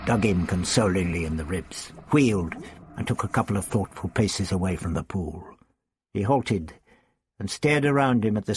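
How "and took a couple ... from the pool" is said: usual speaking voice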